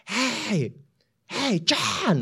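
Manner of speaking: high-pitched call across a station; calling out high to a teammate far away. Retold or imitated. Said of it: "I was screaming at the top of my lungs".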